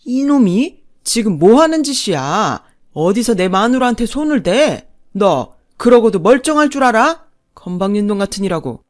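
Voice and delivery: loud, blustering rage; father-in-law's angry outburst. Acted. Father berating his son and wife, bursting with anger. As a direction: roar at your son and wife. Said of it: "아버님이 버럭 소리쳤죠".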